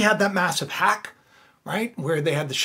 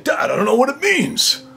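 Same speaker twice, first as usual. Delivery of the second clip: higher kid voice imitating his son; his son's voice; 4 semitones higher than usual. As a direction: play your son puzzled by a dream. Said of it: "It's the way my son really sounds".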